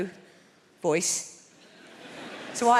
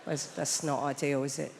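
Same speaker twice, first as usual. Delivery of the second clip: deadpan understatement; 9 semitones lower, 8 dB quieter than usual. Real, not acted. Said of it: "deadpan understatement".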